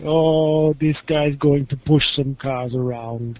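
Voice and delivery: put-on light South African accent; a hint of a South African ranger. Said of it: "that was my South African accent".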